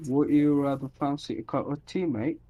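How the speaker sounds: put-on a half-hearted British accent, copying his co-caster; co-caster mimicking the British tea offer; mock British accent. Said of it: "Both of our accents are not very".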